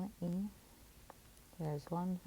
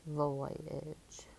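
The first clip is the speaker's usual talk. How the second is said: whispered word; 2 semitones lower than usual. Shown as a demonstration. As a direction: breathe out the whole word voyage. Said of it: "All together".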